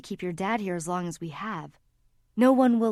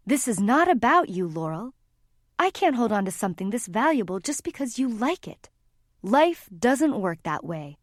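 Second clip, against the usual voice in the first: railing. Acted. Mother railing at her daughter in the alcove, angry. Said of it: "let her mother rail".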